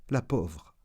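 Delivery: whispered aside of pity. Acted. Narrator pitying his mistaken ex, whispered. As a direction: whisper it, as if sorry for her.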